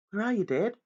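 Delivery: high calling question. Acted. Boy searching for his father in the dark, calling out. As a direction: call out, searching.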